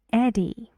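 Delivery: "Eddie" with the first syllable "Ed" stressed. Shown as a demonstration. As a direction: hit the "Ed" of "Eddie", let "die" drop. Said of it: "the stress goes on the first syllable".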